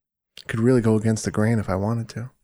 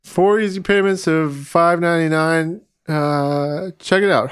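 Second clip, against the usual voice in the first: infomercial voice; 5 semitones higher than usual. Pretend. Infomercial pitch.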